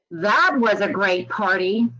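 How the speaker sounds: dry sarcastic take, ending on a rise. Shown as a demonstration. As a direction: say it like it was awful. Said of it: "a little bit of sarcasm coming through".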